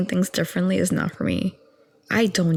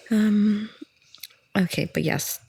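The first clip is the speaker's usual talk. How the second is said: whisper; 3 semitones higher than usual. Real, not acted. Getting back on track.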